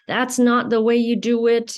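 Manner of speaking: loud scolding inner voice; inner critic scolding. Retold or imitated. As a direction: bark it like a harsh inner critic. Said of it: "that's what I would hear".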